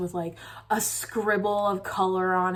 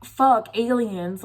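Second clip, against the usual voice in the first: sharp, louder alarmed curse on spotting the aliens; 4 dB louder, much slower than usual. Retold or imitated. Dreamer spotting the aliens, frightened loud curse. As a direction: blurt it out in sudden dream panic. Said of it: "I was like".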